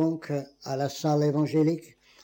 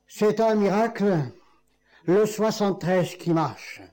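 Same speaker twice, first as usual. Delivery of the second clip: exclaimed; 4 semitones higher than usual. Retold or imitated. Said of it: "il s'écria".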